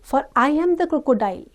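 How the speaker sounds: hammed-up false tears; fake-tearful crocodile. Crocodile pretending to weep to the child, mock sobbing. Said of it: "he wept crocodile tears".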